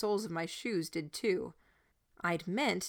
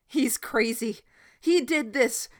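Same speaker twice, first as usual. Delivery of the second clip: loud, higher frantic cry; cried out; 5 semitones higher, 8 dB louder than usual. A narrator's reading. Boy crying out against the shepherd. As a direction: shout the accusation. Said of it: "Gordon cried out".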